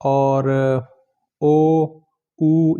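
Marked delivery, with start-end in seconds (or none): 1.4-2.8 ओ and ऊ each held long, separately; long vowels. Shown as a demonstration. Teacher listing long vowels for students, long ओ and ऊ. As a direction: draw out ओ, then ऊ, as pure vowels. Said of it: "ये long vowels हैं".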